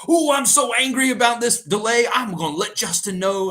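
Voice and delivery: loud, high mock-angry Southern accent; troll them with fake Southern outrage; yelling Southern accent. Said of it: "I put on my Southern accent and I was yelling".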